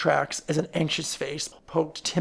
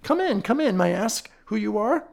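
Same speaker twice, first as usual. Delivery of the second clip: friendly; 5 semitones higher than usual. Acted. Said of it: "with a friendly smile".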